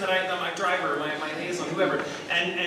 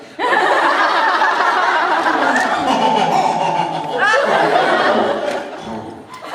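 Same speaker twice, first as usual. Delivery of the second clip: high, loud, long laugh in a mock French style; long theatrical French-style cackle; 13 semitones higher, 8 dB louder than usual. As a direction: let out a hammed-up French laugh on request. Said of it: "Can you do a French laugh?".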